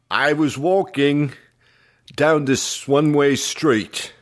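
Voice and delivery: shaky Pennsylvania Dutch accent. Shown as a demonstration. Co-host struggling through lyrics, bad Pennsylvania Dutch accent. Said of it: "I could do a Pennsylvania Dutch accent".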